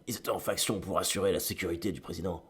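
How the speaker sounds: réplique posée comme un film doublé, plus bas en volume; mauvais doublage américain. Pretend. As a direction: joue le flic sérieux d'une série B. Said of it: "d'un mauvais film américain". (ton léger de film américain doublé)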